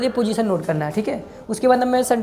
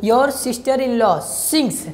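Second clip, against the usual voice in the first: very slow dictation; much slower than usual. Shown as a demonstration. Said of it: "dictating the sentence".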